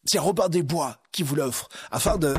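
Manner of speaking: lightly voiced friar; kindly little monk.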